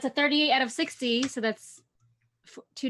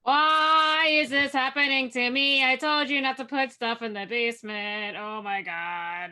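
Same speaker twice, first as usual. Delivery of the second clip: panicked injured character; 4 dB louder than usual. Acted.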